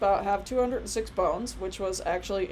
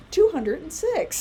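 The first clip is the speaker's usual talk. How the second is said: put-on slow, higher, louder proud child; a boy shouting the answer to the nurse; 9 semitones higher, 7 dB louder than usual. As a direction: announce it triumphantly. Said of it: "And then he goes".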